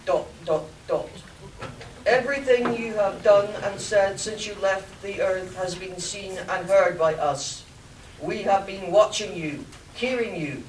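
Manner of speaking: loud, booming alien ruler; Martian overlord voice. Acted. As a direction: proclaim like an alien king. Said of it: "the Martian's voice spoke".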